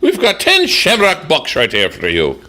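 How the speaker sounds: light mock Irish lilt; switched Irish accent. Host reading out pub prizes, mock Irish accent. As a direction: read the prize with a touch of Irish. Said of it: "I gotta switch accents now".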